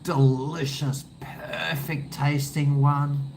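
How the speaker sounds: weighing up beers, playfully indecisive; mock agonising over which beer; musing to himself. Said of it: "I'm always like".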